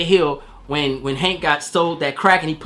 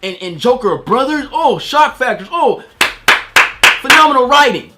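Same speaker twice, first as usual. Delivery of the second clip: higher, airy mock fan gasping over the twist; gushing casual viewer; 6 semitones higher, 4 dB louder than usual. Reviewer mocking audiences who love the brother twist, fake awe. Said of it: "They only say".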